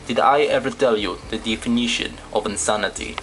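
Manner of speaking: lightly put-on accented villain voice; deliberate, measured delivery with a hint of an accent; Voss impression. Shown as a demonstration. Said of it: "basically doing my Voss voice test".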